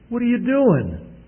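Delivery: put-on a mother catching her child red-handed; shocked mom. Mom sees boy on couch.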